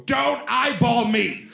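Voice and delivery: high, slow, laughing fake bark; mock diva snap. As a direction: play the bossy star, slow and shrill with a laugh. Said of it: "look at the extras and go".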